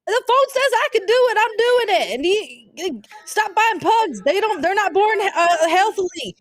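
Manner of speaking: heated argument. Acted. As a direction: argue back at the driver. Driver arguing with woman.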